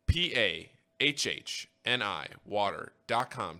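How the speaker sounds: P A H H N I water dot com spelled slowly, each letter separated; slow down and space out each letter of P A H H N I; slow spelling. Shown as a demonstration. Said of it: "That is P A H H N I water dot com".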